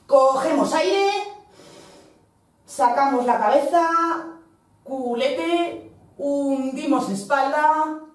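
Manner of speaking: calm steady exercise cues; fitness class cueing. Real, not acted. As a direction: guide each breath and movement. Guided cat-cow breathing cues.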